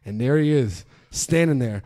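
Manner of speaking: normal talking voice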